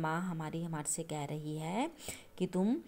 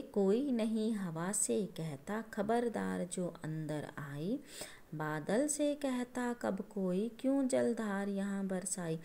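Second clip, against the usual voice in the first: slow, measured reading of the verse; slow poem recitation; 3 semitones higher, slower than usual. Shown as a demonstration. Teacher rereading the poem to her class, slow and measured. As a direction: read the poem aloud slowly for the children. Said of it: "दोबारा समझाती हूँ आपको ये कविता".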